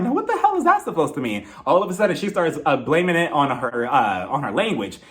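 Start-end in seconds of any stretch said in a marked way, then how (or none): 0.0-1.5 indignant. Retold or imitated. Indignant reaction to retold remark.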